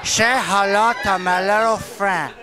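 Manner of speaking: slow, deliberate gangster delivery; slow movie-gangster catchphrase; Scarface line. Shown as a demonstration. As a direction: draw out the classic gangster line. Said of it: "Here's a classic".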